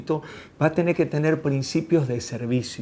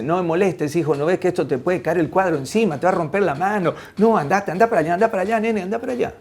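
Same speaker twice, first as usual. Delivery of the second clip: higher, hurried shooing; impatient mock scolding, building; dismissive father; 3 semitones higher, faster than usual. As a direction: play an annoyed dad sending his kid away. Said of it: "Y el papá le dice".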